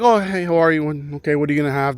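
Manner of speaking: lightly mimicked Latin American Spanish accent; a hint of a mock South American Spanish accent. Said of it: "South American Spanish English accent".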